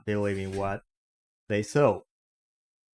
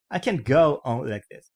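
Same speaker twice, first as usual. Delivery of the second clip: angry; 4 semitones higher, 5 dB louder than usual. Acted. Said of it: "angrily slammed his".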